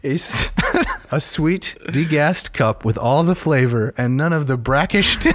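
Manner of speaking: stifled giggles. Real, not acted. Giggling through ad copy.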